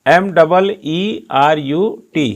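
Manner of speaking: एम डबल ई आर यू टी letter by letter, slow; spelled out slowly. Shown as a demonstration. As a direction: spell it out deliberately. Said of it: "Meerut की spelling क्या है". (धीरे धीरे अक्षर अक्षर बोलते हुए)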